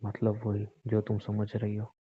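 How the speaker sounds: slow, soft and threatening. Acted. Husband coldly ordering his wife to do her duty, menacing. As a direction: say it like a quiet threat.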